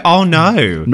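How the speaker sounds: "Oh, no" with a broad Aussie glide; demonstrated Australian accent. Shown as a demonstration. Co-host showing how Aussies sound, demonstrated Australian accent. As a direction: draw out the Australian vowel on "no". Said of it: "No, we don't sound like that".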